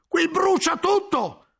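slow, high, drawn-out cry of alarm; alarmed shout. A narrator's reading. Guglielmo warning that everything is burning, slow alarmed shout. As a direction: stretch every word as flames spread. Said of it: "gridò Guglielmo".

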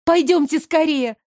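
high, urgent hurry. Acted. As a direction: rush them along. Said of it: "торопила я".

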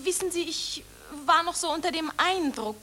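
soft, subdued giving in; the intimidated actress gives in to the reporters; cowed admission. Acted. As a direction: concede quietly, beaten.

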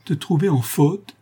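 high, slow, moaning question; wailed question. A narrator's reading. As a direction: moan it in hurt disbelief, drawn out. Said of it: "gémit la tante Belle".

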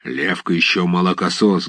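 low, hoarse half-voiced mutter of a tall man; a hint of a hoarse stranger, low; hoarse undertone. A narrator's reading. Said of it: "говорил хриплый вполголоса высокий человек".

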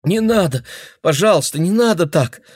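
high, loud frightened plea; cornered girl begging the old man; terrified begging. Acted. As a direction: beg him not to strike again. Girl begging not to be hit.

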